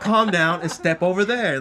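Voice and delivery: mock police command; cop tone. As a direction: give an order like a cop. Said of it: "his cop tone and shit".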